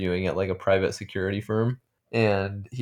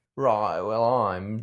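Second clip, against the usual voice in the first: put-on British accent with slurred words. Trying to imitate a show character's way of talking: imitating Ho's British accent. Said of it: "let me see if I can imitate it".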